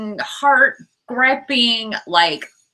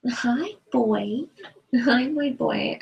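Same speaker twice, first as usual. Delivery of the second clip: higher-pitched pet-talk; greeting a pet; 4 semitones higher, 3 dB quieter, slower than usual. Real, not acted. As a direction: coo a hello to your animal.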